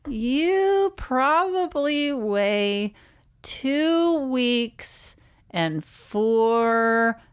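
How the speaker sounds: put-on very slow, lightly childish guess; a hint of a small child, dragging each word; imitating a kid. Mother mimicking her kids guessing weight, slow and light. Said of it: "they would probably be like".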